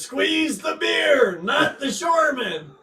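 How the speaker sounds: high, drawn-out sing-out of a slogan; teasing high-pitched slogan; mock exclamation. Reading out a viewer's message.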